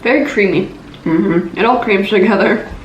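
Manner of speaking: talking through a mouthful; words round a bite of peanut butter; mouth full of peanut butter. Real, not acted. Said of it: "I just got a big mouthful of peanut butter".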